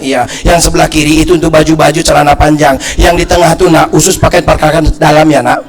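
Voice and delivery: low, even-toned list of instructions; lightly voiced mother giving chores; understated imitation of a patient mother; mother instructing child. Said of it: "mak saya bilang itu".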